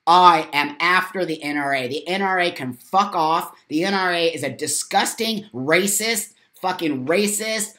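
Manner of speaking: real angry tirade; fucking mad. Real, not acted. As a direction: spit out the insults one after another. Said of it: "'Cause I'm fucking mad".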